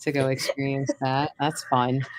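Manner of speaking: low, deadpan self-mockery; wry, put-upon complaint; sarcastic. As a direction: grumble drily at your own bad luck. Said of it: "sarcastic to my own self".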